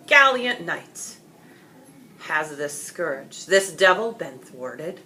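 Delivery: slow, stately royal proclamation, not really deep; a king questioning the knight before the crowd; authoritative king. Acted. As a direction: pronounce it slowly like a ruler. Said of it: "announced in a deep, authoritative voice".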